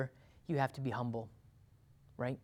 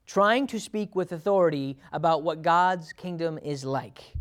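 usual speaking voice

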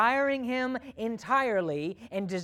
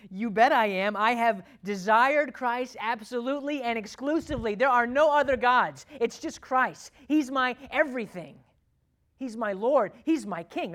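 loud, proud declaration of faith; bold confession; 4 semitones higher, 8 dB louder than usual. Retold or imitated. Answering are you a Christian, loud and proud. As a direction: declare it boldly, full voice. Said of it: "Are you a Christian?".

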